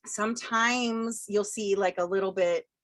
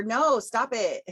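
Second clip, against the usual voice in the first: put-on kid voice; 4 semitones higher, 5 dB louder, slower than usual. Kids talking on the playground.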